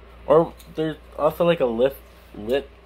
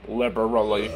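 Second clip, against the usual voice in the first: Midwestern accent; 6 semitones lower, 3 dB quieter than usual. Shown as a demonstration. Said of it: "Give me a Midwestern accent".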